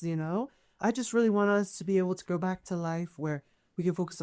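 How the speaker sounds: calm free spirit sharing her hopes; reassuring elf lady. Acted. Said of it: "Her voice ... is very reassuring".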